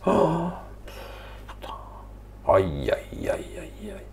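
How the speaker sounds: high "oh", then airy "aïe, aïe"; wincing run of ayes, leaping high; pained dismay. Acted. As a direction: groan in mock pain at what you see. Reacting to journalists seen on TV.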